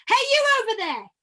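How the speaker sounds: high, loud hail across a distance; upper-range call. Shown as a demonstration. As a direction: call out high to someone far off. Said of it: "play with that upper range".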